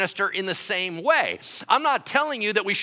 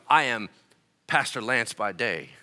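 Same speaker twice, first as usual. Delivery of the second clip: low voice, sinking softer; mock title announcement; 9 semitones lower, 4 dB quieter than usual. Pastor trying out titles on his congregation, mock-solemn and low. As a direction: announce a silly alter ego in a low, hushed tone. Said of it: "So I tried on a couple titles".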